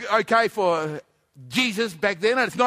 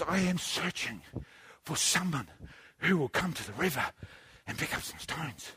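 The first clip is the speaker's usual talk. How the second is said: voice of God; 7 semitones lower, 12 dB quieter than usual. Acted. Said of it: "God says".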